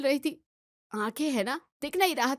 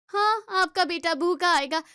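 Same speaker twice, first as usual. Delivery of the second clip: raised, louder sarcastic parroting; mocking echo; 4 semitones higher, 3 dB louder than usual. Daughter-in-law mocking her mother-in-law's words, sarcastic. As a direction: throw her own words back at her.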